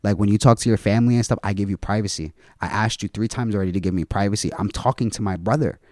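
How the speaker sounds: imitating his calm, measured objection; understated, controlled telling-off; retold calm firmness. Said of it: "And he said it so calm".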